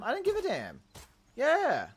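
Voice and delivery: high gleeful damn; excited. Real, not acted. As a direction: hit it high with glee. Excited realization of word.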